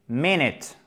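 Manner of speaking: MINUTE as English "MIN-it", both vowels short; slow, careful English MINUTE. Shown as a demonstration. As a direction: say MINUTE with two short I sounds. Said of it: "prononcez ces deux voyelles en I court".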